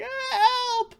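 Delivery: shrill, loud cry for help; panicked cry. Acted. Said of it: "He's like".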